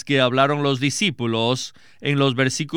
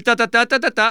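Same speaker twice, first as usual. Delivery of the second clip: nonsense syllables "ta, ta, ta, ta," in a hammed-up Chinese accent, higher and louder; mock Chinese accent; 6 semitones higher, 4 dB louder, faster than usual. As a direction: chirp "ta, ta, ta, ta," as a playful Chinese-accent parody. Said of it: "hablan con acento chino".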